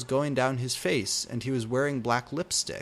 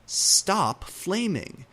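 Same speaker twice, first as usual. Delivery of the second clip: annoyed demand; 7 semitones higher, much slower than usual. A narrator's reading. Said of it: "Author's note".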